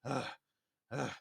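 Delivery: short frustrated "ugh"; frustrated grunts. Acted.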